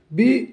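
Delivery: बी split off from यॉन्ड; isolated syllable. Shown as a demonstration. Teacher dividing a word for students, बी said apart. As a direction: hold बी alone, then pause. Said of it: "अलग एक लफ्ज़ है".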